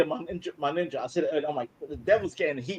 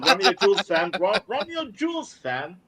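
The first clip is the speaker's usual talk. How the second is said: mock street slang; 3 semitones higher than usual. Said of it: "I can speak Ebonics".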